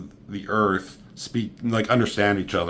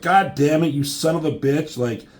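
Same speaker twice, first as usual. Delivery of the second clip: mild mock yell, raised pitch; half-raised voice, scolding someone in imitation; imitated yelling; 4 semitones higher than usual. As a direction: retell an angry telling-off with some force. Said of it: "Nightcrawler's yelling at him".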